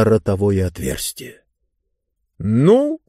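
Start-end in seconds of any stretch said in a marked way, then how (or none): 2.4-3.0 high, long drawn-out words; slow, high, imperious drawl; Mister Speaker drawling. A narrator's reading. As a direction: stretch each word out slowly, pitched up. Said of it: "медленно протянул мистер Спикер".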